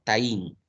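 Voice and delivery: TA and IN run together in "Taín"; joined as one syllable. Shown as a demonstration. Teacher showing students a sinalefa, "Taín" joined as one syllable. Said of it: "se ha formado una sola sílaba".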